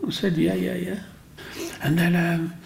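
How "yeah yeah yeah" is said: laughing yes. Real, not acted. Delighted agreeing to commission.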